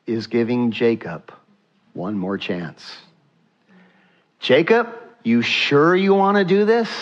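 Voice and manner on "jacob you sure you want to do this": still small voice. Acted. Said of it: "how God speaks in a small, still voice".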